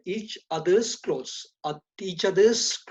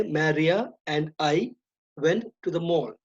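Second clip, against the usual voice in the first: correct version, slower. Shown as a demonstration. Teacher giving the class the correct sentence, slowly. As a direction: say "Maria and I" slowly and carefully. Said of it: "So we say".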